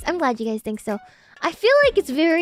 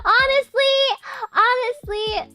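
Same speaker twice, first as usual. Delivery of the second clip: laughing; 9 semitones higher, slower than usual. Real, not acted. High cry laugh.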